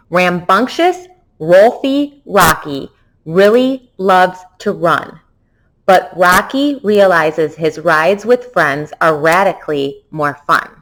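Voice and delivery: careful tongue twister read; steady reading pace. Shown as a demonstration. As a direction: read the twister through clearly. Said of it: "So here we go, the Rocky Tail Twister".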